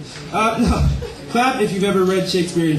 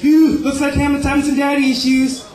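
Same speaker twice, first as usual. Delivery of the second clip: Doctor Evil; 6 semitones higher than usual. Acted. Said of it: "Doctor Evil as King Claudius".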